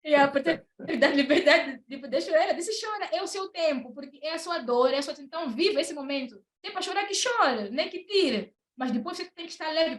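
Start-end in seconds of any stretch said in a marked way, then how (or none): 2.8-10.0 imitating mentor. Mentor's encouraging words retold.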